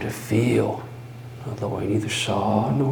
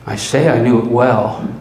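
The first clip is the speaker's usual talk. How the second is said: insistent; 7 dB louder, faster than usual. Acted. Insisting after whisper.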